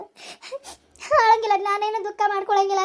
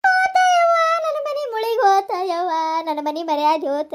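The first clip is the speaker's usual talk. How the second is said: wailing lament. Acted. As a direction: mourn the lost honour of the house. Old woman wails over disgrace.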